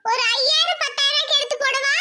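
saree shop assistant. Acted.

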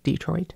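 "Detroit" as DEE-troit; front-stressed "Detroit", said softly; dialect pronunciation. Shown as a demonstration. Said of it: "I said it".

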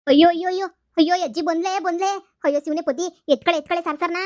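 loud panicked wails of alarm; panicked cries. Acted. Woman caught stealing beans cries out to her friend in loud panic. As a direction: yelp in panic, caught red-handed. Pickers panic as grandma arrives.

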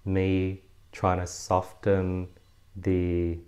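slow, careful attempt at a lighter Australian accent; softened Australian accent. Shown as a demonstration. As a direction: tone down the Australian accent, drawing the words out. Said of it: "I'm gonna soften my, uh, Australian accent".

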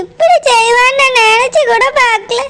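tearful, sobbing through the words; crying. Acted. Daughter tells her father she's hurt, crying. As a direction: cry it out, hurt and betrayed. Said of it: "ஏன் அழுதுட்டு இருக்கா".

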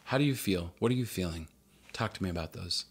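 quiet, soothing therapist imitation; soft counselor voice. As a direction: gently coax like a counselor. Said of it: "Crucial Conversations would even say".

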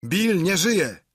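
high, slow, loud cry of alarm; shocked scream. A narrator's reading. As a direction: scream out the discovery of the body. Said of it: "głos jakiś wrzasnął". (przerażony wrzask pirata)

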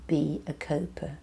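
soft unvoiced whisper of advice; whispered mantra; whispered urging. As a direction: lean in and whisper it like a secret. Urging listener to cope.

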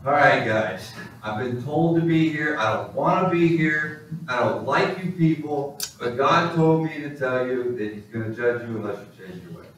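mock half-hearted sermon delivery; apathetic preacher. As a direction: recite it like an unwilling preacher. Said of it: "the most apathetic sermon".

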